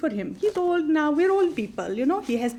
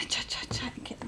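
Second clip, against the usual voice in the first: muttering; 13 dB quieter, much faster than usual. Acted. Muttered under breath.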